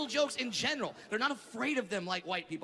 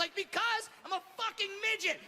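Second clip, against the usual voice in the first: mock angry shout; 8 semitones higher than usual. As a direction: yell it back, indignant. Heated argument with station.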